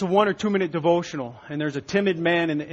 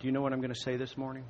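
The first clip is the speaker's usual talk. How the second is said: put-on meek, sheepish voice, much quieter and lower; 4 semitones lower, 10 dB quieter than usual. Retelling what a man at the podium asked the congregation, mimicking a little sheepish voice. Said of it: "and a little sheepish voice".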